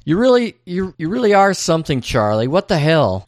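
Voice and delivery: half-acted baffled wife; wife scolding Charlie, lightly acted; mock exasperation. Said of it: "she seems confused".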